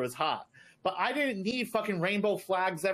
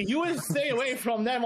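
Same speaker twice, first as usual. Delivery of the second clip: Arab accent; 5 semitones higher than usual. Shown as a demonstration. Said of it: "say it in an Arab accent".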